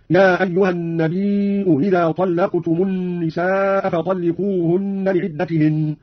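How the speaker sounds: النبي with long held ī and hamza, إذا with softened hamza; eased second hamza. Shown as a demonstration. Teacher demonstrating Qalun's reading, النبي إذا with eased second hamza. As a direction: hold النبي into a hamza, glide lightly onto إذا. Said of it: "فتسهل الثانية".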